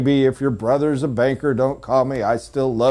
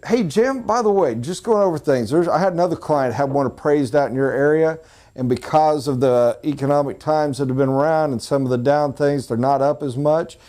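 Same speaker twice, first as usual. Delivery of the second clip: casual friendly aside; 2 semitones higher than usual. Retold or imitated. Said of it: "Hopefully not attack".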